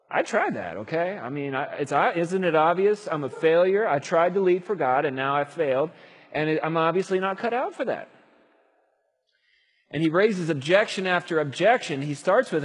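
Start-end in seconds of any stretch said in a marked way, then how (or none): 0.1-8.1 protesting Moses. Acted. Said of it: "He's like".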